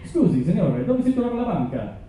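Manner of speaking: smooth Italian accent, proud tourist; confident Italian. Shown as a demonstration. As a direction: rattle it off like a local. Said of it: "I wanted to sound perfect".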